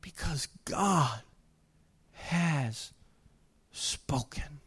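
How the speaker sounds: soft, dropping to a whisper; hushed. Real, not acted. Preacher hushing the church to a whisper. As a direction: let it fall away to a breath.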